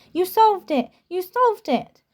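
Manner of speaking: high joyful cry, solved punched; excited scream. A narrator's reading. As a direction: Hermione running to Harry in delight.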